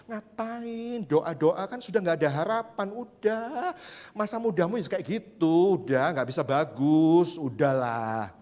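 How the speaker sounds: slow, lightly voiced devil; a hint of a whispering devil, slow; tempting devil. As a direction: drag it out like a sly tempter. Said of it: "dia bisa mengeluarkan suara kayak gitu".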